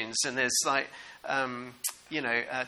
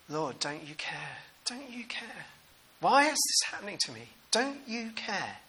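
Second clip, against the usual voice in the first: higher, soft, pleading cry; pleading to God; 4 semitones higher, 5 dB quieter than usual. Retold or imitated. Disciples in the storm plead with Jesus, higher and soft. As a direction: beg the Lord to notice you.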